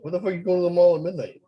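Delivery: high, fast disbelieving question; incredulous. Real, not acted. Host asking about the mall in fast disbelief. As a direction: fire it off in disbelief.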